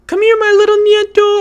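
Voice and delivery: high-pitched, full-voiced yell; very loud grandmother. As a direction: imitate grandma hollering for her grandchild. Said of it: "very loud and be like".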